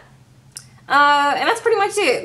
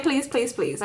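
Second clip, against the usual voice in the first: soft, repetitive mock plea; understated imitation of pleading; retold pleading; 8 dB quieter than usual. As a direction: imitate quiet begging, sinking away at the end. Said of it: "He's just saying".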